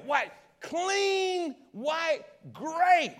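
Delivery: high, loud preacher cry of joy; exultant shout. Acted. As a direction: shout it out like a revival. Preacher exulting over washed sins.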